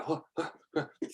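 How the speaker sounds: high, quick hooting war cry; yelping pirate charge call; battle cry. Acted.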